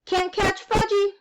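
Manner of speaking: put-on high, teasing toddler voice; hollered taunt. A narrator's reading. Little boy escaping his babysitter, hollering high. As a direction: taunt like a small boy on the run. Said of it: "he hollered".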